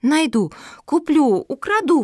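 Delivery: escalating high, loud outbursts; going wild. A narrator's reading. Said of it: "пошла в разнос Мафуля".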